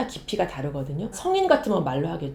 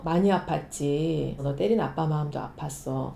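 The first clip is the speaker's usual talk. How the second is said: father soothing; 6 semitones lower, 6 dB quieter than usual. Retold or imitated. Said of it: "아버지가 방에 들어와서 이제 달래주죠".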